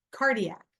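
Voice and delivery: "cardiac" with CAR carrying the weight; stress on first syllable. Shown as a demonstration. Teacher giving an example of first-part emphasis, CAR stressed in "cardiac". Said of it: "put emphasis on the first part".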